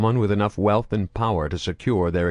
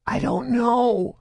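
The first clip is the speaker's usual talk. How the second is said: fearful whisper; slower than usual. A narrator's reading. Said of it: "Grotto whispered fearfully".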